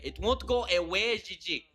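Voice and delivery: high, loud whiny plea; pleading sing-song whine; mock whine. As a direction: whine it like a child begging. Mock whiny repeat to Gigi.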